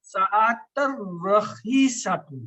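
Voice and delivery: ساعت رخیصۃ joined, n dropped into a held r; slow linked recitation, no n heard before رخیصۃ; merged n demo. Shown as a demonstration. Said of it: "تو نون کا آواز تو وہ غائب ہوگا".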